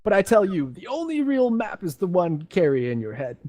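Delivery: put-on a light old man voice; lightly voiced old explorer. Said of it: "That was my best attempt at an old man".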